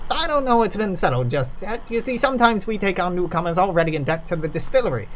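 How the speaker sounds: lightly voiced worker, awed by the formula; reverent factory worker. Worker telling visitors about the formula, reverent. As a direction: tell it like a sacred story.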